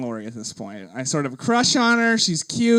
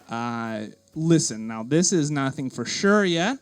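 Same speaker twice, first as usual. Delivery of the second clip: lowered, grave hospital caller; fake official voice; 4 semitones lower than usual. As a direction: deliver the bad news like a hospital clerk. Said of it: "put on my best fake voice for her".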